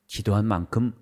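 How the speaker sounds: ordinary talk, nothing marked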